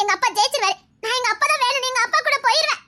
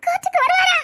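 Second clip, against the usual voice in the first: high, eager question; excited hope; 6 semitones higher than usual. Acted. Girl hearing her father may come to court, excited. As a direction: voice leaps up with sudden hope.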